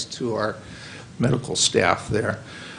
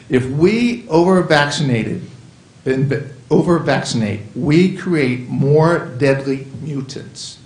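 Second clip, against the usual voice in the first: insistent warning, slowing at the end; emotional; 2 semitones higher than usual. Real, not acted. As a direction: drive each word home, slowing down. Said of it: "I'm very emotional about this".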